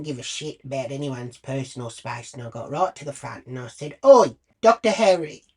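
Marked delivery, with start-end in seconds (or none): 4.0-5.4 calling out. Retold or imitated. Calling out over crowd.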